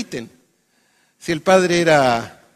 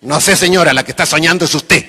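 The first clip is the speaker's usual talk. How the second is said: louder reply with a laugh; loud laughing punchline; 8 dB louder than usual. Retold or imitated. Man's punchline reply in joke. (respuesta en voz alta, riendo)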